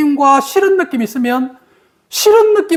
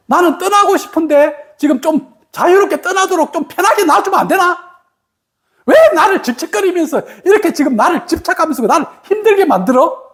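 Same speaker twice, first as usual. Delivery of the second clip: higher, fast, half-laughing gripe; exasperated complaint; 4 semitones higher than usual. Retold or imitated. 집착하는 연인에게 지친 사람이 반쯤 웃으며 하소연하는 말투. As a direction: whine like someone fed up with a clingy partner. Voicing the partner who wants out.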